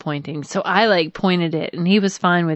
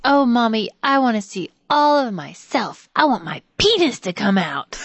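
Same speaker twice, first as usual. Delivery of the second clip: put-on little boy voice; 4 semitones higher than usual. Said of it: "He's like".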